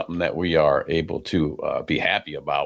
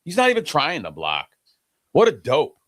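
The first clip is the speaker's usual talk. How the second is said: exasperated rant; 3 semitones higher than usual. Real, not acted. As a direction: vent at the lazy lineman. Ranting at bad player.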